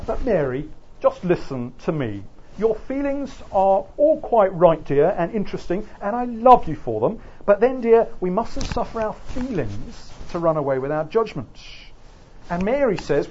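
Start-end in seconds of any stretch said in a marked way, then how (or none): 0.1-11.5 acted husband patiently reasoning with his wife, emphatic swings upward; lecturer's lightly dramatised placating husband, stressed and measured; patronising husband. Senator answers his wife's objection, lightly acted patronising husband. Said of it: "John Bird replies with a biblical defense".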